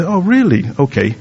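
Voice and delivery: a pretend humble "really", fading to a soft "okay"; mock humble. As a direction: play the meek husband who just accepts it. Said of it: "I like to say very humble".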